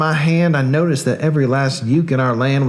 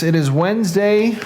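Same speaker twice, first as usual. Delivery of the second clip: slow date announcement; 4 semitones higher than usual. Shown as a demonstration. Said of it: "just in case you still don't know".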